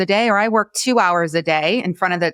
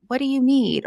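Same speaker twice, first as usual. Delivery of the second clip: gentle self-talk; 7 semitones higher than usual. Shown as a demonstration. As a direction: ask it tenderly, like to a small child. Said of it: "talking to yourself gently".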